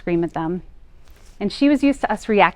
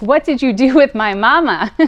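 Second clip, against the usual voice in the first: put-on higher, louder child voice, amazed; astonished child; 5 semitones higher, 10 dB louder than usual. Daughter stunned by her mother's new calm, astonished child voice. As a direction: sound like a little girl who can't believe it. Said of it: "looked at me like I was an alien, like".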